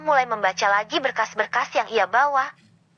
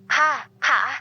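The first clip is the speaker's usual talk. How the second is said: laughing; much slower than usual. Acted. Pak Darto laughs at joke.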